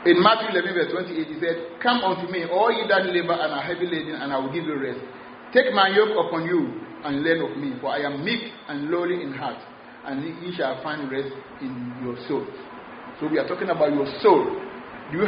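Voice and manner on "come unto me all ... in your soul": soft, fading, loving invitation; gracious and loving. Retold or imitated. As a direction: draw the weary in with gentle grace. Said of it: "graciously and with love".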